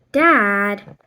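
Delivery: loud, embarrassed cry; teen embarrassed by dad's joke; embarrassed protest. Acted. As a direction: protest the teasing.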